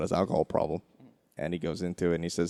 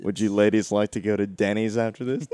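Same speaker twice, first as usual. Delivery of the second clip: a lightly voiced Leno; Jay Leno impression; 2 semitones higher, 5 dB louder than usual. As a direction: put on a hint of a Leno voice. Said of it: "Worst Leno impressions ever".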